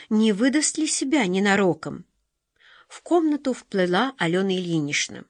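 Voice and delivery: ordinary delivery, nothing marked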